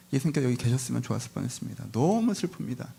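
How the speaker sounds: retold active complaint with a touch of grief; mild mock lament, pitch lifting on the last words; grieving reproach. Mary pours out her sorrow to Jesus, mildly acted grieving reproach. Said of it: "적극적으로 원망하고 큰 슬픔을".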